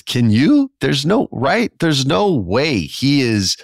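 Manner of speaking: high, loud, insistent disbelief; there's just no way, come on; incredulous. Real, not acted. Insisting Edge won't leave.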